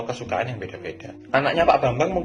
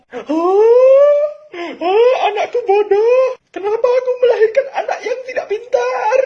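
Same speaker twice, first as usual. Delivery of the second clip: shrieking, laugh-crying mock mother, much higher and louder; hysterical mother; 10 dB louder than usual. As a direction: wail like an over-the-top mom. Mother hysterical over bad grades.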